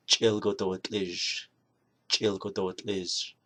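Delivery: Chilgodotlij said slowly, syllable by syllable; Navajo word for green. Shown as a demonstration. Teacher showing viewers Navajo green, slowly. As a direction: spell out Chilgodotlij slowly twice. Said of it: "you have to say".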